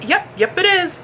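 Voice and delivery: high-pitched, chirpy postman reply; imitated postman. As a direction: lightly mimic an upbeat postman.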